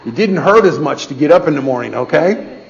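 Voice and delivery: laughing through the words; joking to Connie about being twenty years younger, laughing. Real, not acted. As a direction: chuckle as you say it.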